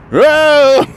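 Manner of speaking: high, drawn-out mock holler; imitated scream. Mother as he moves her in bed, imitated high scream. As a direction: mimic her startled yelp, way up high. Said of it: "but screaming because of me".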